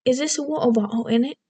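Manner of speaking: lilting mock-British, T's swallowed in "bottle"; hammed-up British accent, rising on "in it"; stereotypical British accent. Shown as a demonstration. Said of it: "some very stereotypical ones too".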